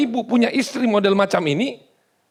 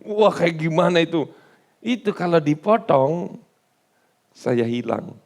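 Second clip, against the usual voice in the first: lightly voiced Samson; 6 semitones lower than usual. Samson confides to Delilah.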